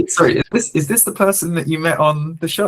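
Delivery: surprised, needing to check; real surprised interjection. Real, not acted. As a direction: cut in with sudden, delighted curiosity. Surprised interruption about guest's wife.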